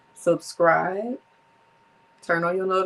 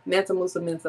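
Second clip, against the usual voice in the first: tongue twister; faster than usual. Shown as a demonstration. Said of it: "say it five times fast".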